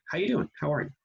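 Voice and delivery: breezy throwaway greeting; casual hello. Acted. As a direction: toss it off like a hello. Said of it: "has become a synonym for hello".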